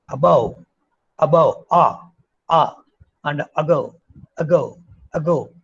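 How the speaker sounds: above and ago with a full ah first vowel; learners' above and ago. Retold or imitated. Teacher imitates Indian learners, full vowel in above. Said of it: "we say that".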